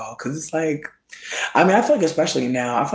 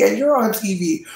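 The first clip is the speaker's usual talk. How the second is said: high announcer voice landing down; mock TV host, falling; 8 semitones higher than usual. Gaslighting onlookers after a chair breaks, a high TV-host reveal falling to a close. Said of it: "I'm gaslighting everybody".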